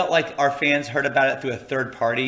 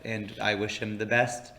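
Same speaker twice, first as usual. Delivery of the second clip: villain voice; 2 semitones lower, 5 dB quieter than usual. Real, not acted. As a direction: say it like a scheming villain. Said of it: "with that e-, villain voice".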